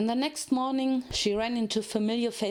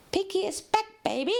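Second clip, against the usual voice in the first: excited cheer; 10 semitones higher than usual. Acted. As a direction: burst in shouting with glee. Pinkie bursts in cheering.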